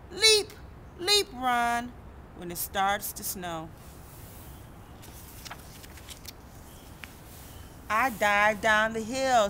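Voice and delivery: sing-song storybook read with character quotes; reading to children. Acted. Reading a snow picture book to kids, sing-song. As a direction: read it out gently to a young audience.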